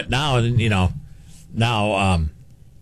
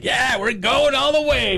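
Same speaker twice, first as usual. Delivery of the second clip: mock fan hype; 13 semitones higher than usual. Fan bragging about his team after one good week, high and giddy. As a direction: hype it up like a fan who thinks they're winning it all. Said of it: "You're like".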